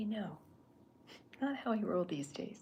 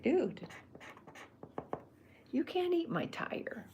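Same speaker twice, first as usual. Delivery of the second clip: high and louder, slow and emphatic protest; cartoon character line; 10 semitones higher, 4 dB louder, slower than usual. Chuck telling the other character off, high emphatic protest. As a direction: play it big, like the cartoon guy objecting. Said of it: "'Cause that's how he would say it".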